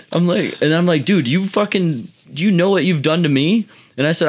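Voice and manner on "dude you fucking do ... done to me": outraged. Retold or imitated. Imitating Roy's complaint.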